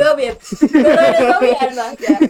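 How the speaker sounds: bursting out laughing, high and loud. Real, not acted. Friend jokes she can see again, she laughs out loud. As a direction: laugh through the words, real amusement.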